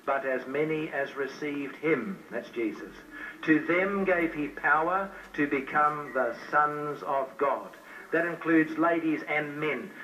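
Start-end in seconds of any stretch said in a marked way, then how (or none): 0.0-7.8 slow, weighty reading of scripture. Acted. Preacher reading a promise to new converts, slow and solemn. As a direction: read the verse slowly and solemnly. Reads John 1:12 aloud.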